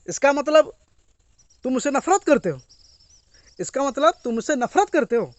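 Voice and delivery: a touch of hurt anger; quarreling wife. Retold or imitated. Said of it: "अनबन हुआ कुछ girlfriend से, wife से".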